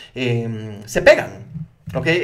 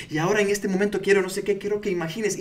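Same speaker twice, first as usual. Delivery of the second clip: higher, involved hypnotist patter; demostración de hipnosis; 5 semitones higher than usual. Shown as a demonstration. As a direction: slip into demonstrating an induction. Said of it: "yo estoy así". (demostrando una inducción, más agudo)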